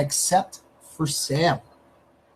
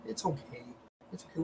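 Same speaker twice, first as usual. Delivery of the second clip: very soft reassurance to the dog; calm the dog, almost under breath; soothing; 17 dB quieter than usual. Real, not acted.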